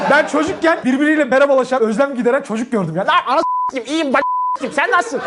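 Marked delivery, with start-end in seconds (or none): 3.1-5.2 put-on kid voice. Kids greeting with curses.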